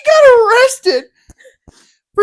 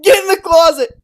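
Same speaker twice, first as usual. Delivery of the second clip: mock stern order; 4 semitones lower, faster than usual. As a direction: bark it like a mean teacher, half laughing. Teacher orders kid into closet.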